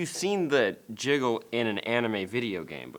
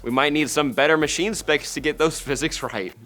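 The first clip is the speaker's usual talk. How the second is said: quoted producer; 6 dB louder than usual. Retold or imitated. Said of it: "His quote".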